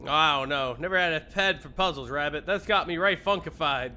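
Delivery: mild folksy cowboy; lightly voiced cowboy. Gabby declining to help, a light cowboy voice. Reads game character lines.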